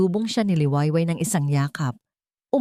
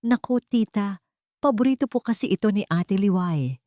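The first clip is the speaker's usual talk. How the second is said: polite; 3 semitones higher than usual. Acted. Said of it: "magalang na sagot ni Sinag".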